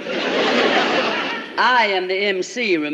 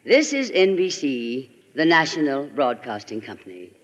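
network station ID; 4 semitones lower than usual. Pretend. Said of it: "take this time to bring my chimes".

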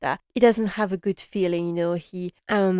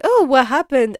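higher, louder surprised question; a startled newcomer asking what happened; 6 semitones higher, 7 dB louder than usual. Retold or imitated. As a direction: gasp it out as she walks in. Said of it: "Missus Yu arrives, like".

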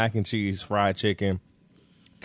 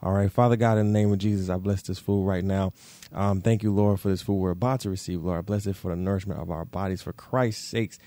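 solemn family blessing. Real, not acted. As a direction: bless the food sincerely. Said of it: "let's say our prayers".

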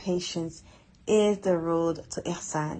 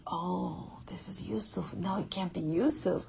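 stunned disbelief. Retold or imitated. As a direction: whisper in disbelief, then burst out asking. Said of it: "and they're like".

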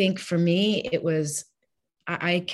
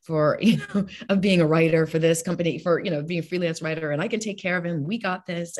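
overconfident self; 2 semitones higher, faster than usual. Retold or imitated. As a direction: sound sure you can do it all alone. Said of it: "I was like".

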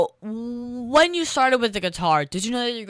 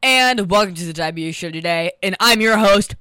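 announcer; 5 dB louder than usual. Acted. Host opening the show.

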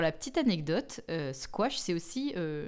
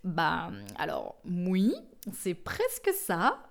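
slow patient reply; 2 semitones lower, much slower than usual. Retold or imitated. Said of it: "je me sens un peu obligée de dire".

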